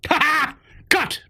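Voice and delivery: giddy laughter between shouted cheers; gleeful laughing. Real, not acted. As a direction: laugh through each cheer. Gleeful over cancelled programs.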